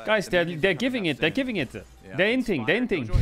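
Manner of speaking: lightly mimicked player calling to teammates; repeated calls with swooping intonation; Hilly. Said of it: "Hilly's like".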